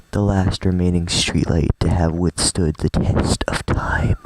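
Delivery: hushed, breath-heavy poem recital; poem reading voice. Acted. Streamer reading Yuri's poem aloud, hushed poem reading voice. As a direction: read it slowly in a half-whisper, like a poem. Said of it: "Do you like my poem reading voice?".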